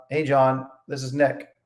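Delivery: low, soft, lifeless "Hey, John, this is Nick."; the wrong way to open a sales call, flat and quiet; flat dull greeting. Shown as a demonstration. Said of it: "Eh, opposed to".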